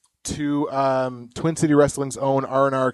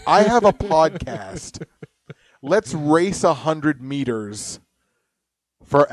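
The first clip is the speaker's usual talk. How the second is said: put-on Jamaican accent; 2 semitones higher, slower than usual. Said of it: "That's a terrible Jamaican accent".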